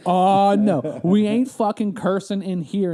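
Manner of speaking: loud offended clerk, drawn out slow; a clerk scolding again, slow and loud; huffy clerk repeated. Retold or imitated. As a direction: repeat her scolding with mock outrage. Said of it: "that's what she said".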